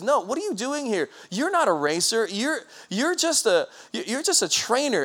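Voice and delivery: mock the would-be racer from above; scornful owner. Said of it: "one of the owners of the company says".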